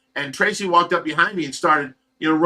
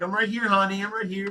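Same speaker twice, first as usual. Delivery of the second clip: higher, gentle reassurance to a loved one; reassuring; 6 semitones higher, 4 dB quieter than usual. Retold or imitated. Husband reassuring his wife at her bedside, higher and gentle. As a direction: soothe her, letting her know you're there.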